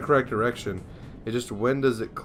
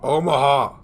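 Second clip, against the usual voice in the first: excited call; 4 semitones higher, 8 dB louder than usual. Real, not acted. Calling out to enemy ship.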